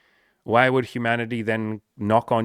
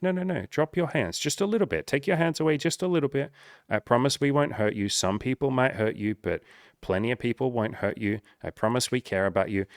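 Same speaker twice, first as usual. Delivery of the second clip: gentle coaxing; 2 semitones higher than usual. Pretend. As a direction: coax a scared friend gently. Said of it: "we're like".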